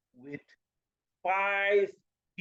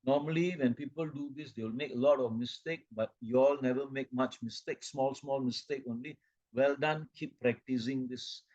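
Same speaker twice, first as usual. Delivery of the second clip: praising; 4 semitones lower than usual. Shown as a demonstration. Trainer praising staff for a first try, encouraging. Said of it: "must praise and say".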